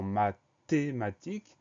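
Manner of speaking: "mathématique" slowed, broken into syllables. Shown as a demonstration. Teacher pointing out the silent H, "mathématique" slowly syllabified. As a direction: draw out "mathématique" in separate syllables.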